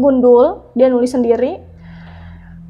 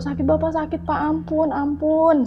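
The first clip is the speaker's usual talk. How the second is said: higher-pitched imitated moaning; retold pained pleading; 4 semitones higher than usual.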